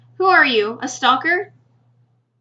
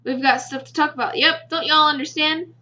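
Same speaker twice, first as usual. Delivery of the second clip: a put-on hillbilly accent to sound folksy; 2 semitones higher than usual. Girl speaking to him in a put-on hillbilly accent. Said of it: "tries to communicate with me in some odd hillbilly accent".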